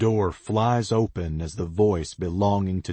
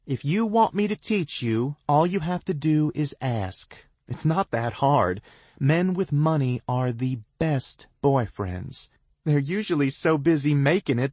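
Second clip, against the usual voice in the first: smug; 10 semitones higher, 5 dB louder than usual. A narrator's reading. T B lectures on rich men.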